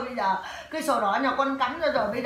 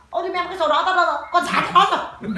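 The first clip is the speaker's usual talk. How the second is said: fast, higher imitated father panicking; retold flustered cry; 5 semitones higher, 4 dB louder, faster than usual. Father suddenly missing the book, fast and flustered. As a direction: rattle it off like the startled father. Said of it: "bố nó bảo".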